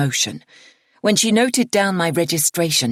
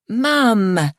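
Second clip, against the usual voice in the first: groaning; 6 semitones higher, 4 dB louder than usual. A narrator's reading. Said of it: "My groan is audible".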